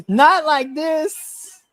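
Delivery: high, slow mock cry; mock wail. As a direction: wail it again, hammed up. Retold wail.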